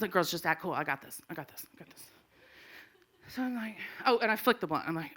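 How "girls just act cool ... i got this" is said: hushed, low, fading reassurance; covert whisper. Retold or imitated. Mom tells girls to act cool, covert whisper. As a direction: whisper it to them, dwindling to almost nothing.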